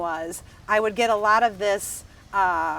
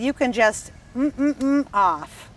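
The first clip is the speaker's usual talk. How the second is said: retold telling off; slower than usual. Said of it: "I said the F word".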